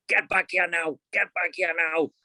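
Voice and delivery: high-pitched impression of wife ordering; imitated hushed shouting. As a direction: mimic an urgent, restrained yell, pitched well up. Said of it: "she's shouting, but, like, in a whisper".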